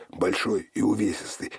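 usual speaking voice

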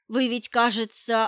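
plain reading voice

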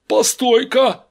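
high, loud objection; yelling. A narrator's reading. Gang member stops Steve, yelling. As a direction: cut in with a sharp yell. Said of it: "завопил один из ребят".

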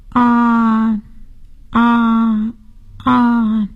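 drawn-out ahh for the doctor; saying ahh. Shown as a demonstration. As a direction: open wide and say ahh. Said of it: "请张开嘴说： “啊，啊，啊。".

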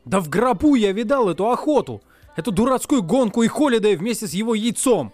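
yelling. Acted. Wade yells at Artemis about the hunt, furious. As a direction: bellow it out in fury. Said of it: "Заорал я".

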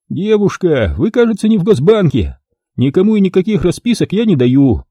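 a lightly voiced shady photographer. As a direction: play the dealer selling his offer. Photographer threatens client.

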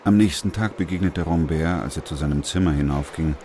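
even, measured narrator read; story narration. A narrator's reading. Narrator sets the scene for listeners, steady storytelling. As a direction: tell it like a radio play narrator.

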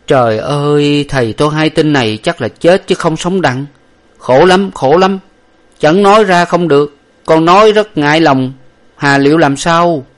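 high, loud anguished plea from a frightened servant; distressed servant. A narrator's reading. Servant pleads with his master, high and anguished. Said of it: "Lục Tặc mặt châu mày ú tiếp rằng".

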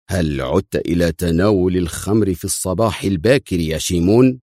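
plain reading voice

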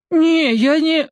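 put-on high, slow timid boy's yes; scared captive mumbling consent; cowed boy. A narrator's reading. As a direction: agree meekly.

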